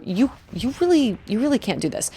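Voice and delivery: softly hesitant let-down; kind. Shown as a demonstration. Showing a kind way to discourage, gentle. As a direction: say the hard thing gently. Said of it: "there's still a kind way to say".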